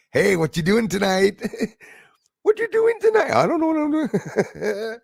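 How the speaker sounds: hammed-up high, loud silly voices, giggling; mock skit voices. Host voicing a silly imagined chat, hammed-up high squeal. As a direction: play a silly come-on, rising into a squeaky squeal.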